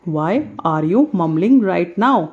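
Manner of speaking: slow, clear classroom model; slow model sentence. Shown as a demonstration. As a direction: drill it slowly. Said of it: "हम इस चीज़ को कैसे बोलेंगे". (धीमे, साफ़ अंदाज़ में)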